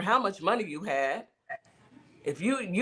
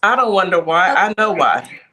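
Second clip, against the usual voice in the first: loud, emphatic; 11 dB louder than usual. Real, not acted. Emphatic retort to co-host.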